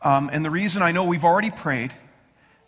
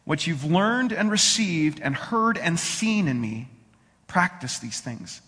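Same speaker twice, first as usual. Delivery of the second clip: scripture reading. Acted. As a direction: read it calmly to the congregation.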